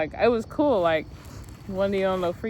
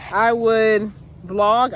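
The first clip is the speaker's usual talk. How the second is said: drawn-out declaration; 6 dB louder, much slower than usual. Real, not acted. Excited declaration.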